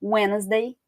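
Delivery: "Wednesday" said as "Wensday", no d; silent d in Wednesday. Shown as a demonstration. Teacher modelling "Wednesday" for students, silent d. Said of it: "que o D não é pronunciado".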